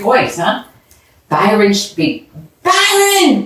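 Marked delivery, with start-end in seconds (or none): 2.6-3.4 high, sharp shout of a name; scolding shout. A narrator's reading. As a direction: snap his name to stop him. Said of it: "Brenda shouted".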